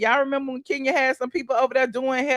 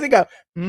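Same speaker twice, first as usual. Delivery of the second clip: car hum; 4 semitones lower, 3 dB louder, much faster than usual. Shown as a demonstration. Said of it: "you press the gas".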